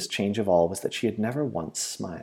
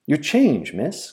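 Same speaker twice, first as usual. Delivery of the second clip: raised, higher shopkeeper's call; louder cry, lifted at the end; 7 semitones higher, 5 dB louder, much slower than usual. A narrator's reading. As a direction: call after a departing customer. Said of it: "cried the international store's shopman".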